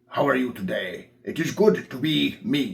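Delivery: deliberate, slow, put-on British accent. Showing how to add accents on top of a base character voice: british accent. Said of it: "we can give him British voice".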